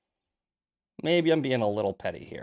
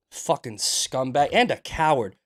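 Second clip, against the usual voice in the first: angry insult. Real, not acted. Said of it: "I'm heated today".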